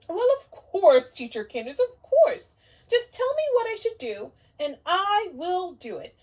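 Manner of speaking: high, loud, eager little owl; puppet owl. Acted. Owl puppet greeting the teacher, high and eager. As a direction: greet like a thrilled puppet friend.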